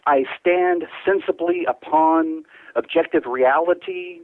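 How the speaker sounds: slow, measured spoken-word delivery; poetry reading. Acted. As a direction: let each image hang in the pauses. Reads his poem on air.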